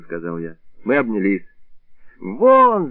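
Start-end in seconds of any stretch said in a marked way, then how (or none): 2.2-2.9 high, loud shriek of one word. A narrator's reading. Wife shrieking at drunk guests to get out, high and loud. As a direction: shriek them out of the house. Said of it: "завизжала Бабаля".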